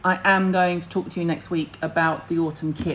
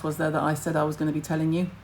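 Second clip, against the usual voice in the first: ordinary talk, nothing marked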